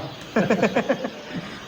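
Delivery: high, light, breath-only laugh; soft chuckle. Real, not acted. Chuckling after trying to wake someone, soft laugh. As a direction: let out a quiet giggle. Amused after waking attempt.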